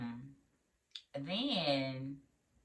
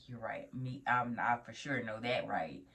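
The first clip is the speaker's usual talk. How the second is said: meek mumble; 7 semitones lower, 7 dB quieter than usual. Retold or imitated. Meekly agreeing with preceptor.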